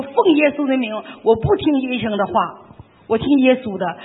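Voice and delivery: defiant declaration. Retold or imitated. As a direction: declare it boldly, refusing the doctor. Defiant declaration against doctor's word.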